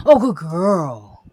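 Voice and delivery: slow, loud, drawn-out praise. Real, not acted. Owner praising her dog Cora loudly and slowly. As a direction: gush over the dog.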